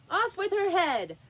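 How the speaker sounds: loud high furious shout. A narrator's reading. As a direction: scream the order at full voice. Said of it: "shouted at the top of her voice".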